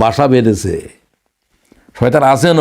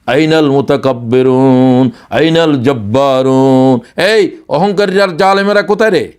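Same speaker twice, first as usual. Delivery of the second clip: divine call on Judgement Day; slower than usual. Retold or imitated. Preacher voicing the call to the proud on Judgement Day, slow and thundering. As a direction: intone it like a summons over a vast field. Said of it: "কিয়ামতের আল্লাহর আওয়াজ".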